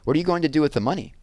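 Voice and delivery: put-on fast, high girl's question; curious friend pressing for an answer; eager question. Megan asking Jessie about the money, fast and eager. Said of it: "said Megan".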